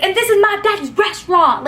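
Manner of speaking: high, indignant mock whine of a spoiled guy; whiny yelling guy. Spoiled guy yelling at the girl in his dad's restaurant, high whine. He yells at her.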